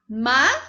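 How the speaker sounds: "I-ma-gen" in three separated syllables; syllabified. Shown as a demonstration. Teacher correcting imagem for home students, syllables spaced. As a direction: tap out each syllable. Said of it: "E imagem?".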